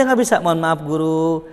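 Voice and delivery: softly apologising to the teacher; polite refusal. Shown as a demonstration. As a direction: decline gently and respectfully. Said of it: "bilang aja".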